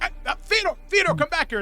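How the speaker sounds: calling back the wandering friend. Acted. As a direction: call him back, exasperated. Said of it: "he's like".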